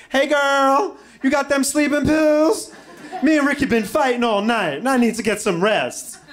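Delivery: high, loud Southern woman impression; Southern woman's accent. Calling best friend for sleeping pills, high Southern accent. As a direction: holler it out with a put-on Southern twang. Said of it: "a black woman from the South".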